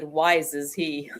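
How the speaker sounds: slow, lightly voiced Yoda; a hint of Yoda, slow and wise; Yoda impression. Husband answering in Yoda's slow voice. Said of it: "He does a pretty good Yoda".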